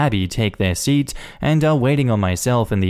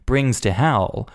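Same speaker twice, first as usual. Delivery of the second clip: ordinary delivery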